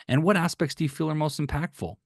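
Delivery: genuinely curious question. Shown as a demonstration. Coach showing a client question, curious. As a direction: ask it like you really want to know. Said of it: "so curious".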